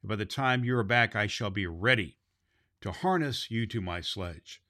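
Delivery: measured storybook reading; storyteller voice, unhurried; story narration. A narrator's reading. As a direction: read the tale to children. Reads the storybook aloud.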